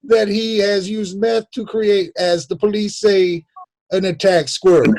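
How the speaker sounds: grand put-on defence attorney; mock Southern lawyer. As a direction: address the jury as a folksy lawyer. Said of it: "that's how his lawyer sounds".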